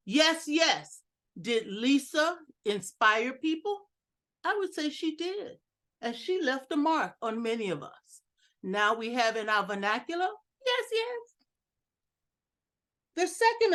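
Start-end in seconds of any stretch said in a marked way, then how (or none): 0.1-1.0 mild agreeing yes. Retold or imitated. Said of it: "randomly going". 10.7-11.5 "Yes, yes." with the second yes lifted high and firmer; stress on the second yes. Shown as a demonstration. Speaker showing the group their new "Yes, yes." catchphrase, second yes stressed. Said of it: "you emphasize the second yes".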